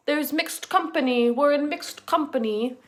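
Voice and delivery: mock old-timey grandpa. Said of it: "nineteen twenties grandpa".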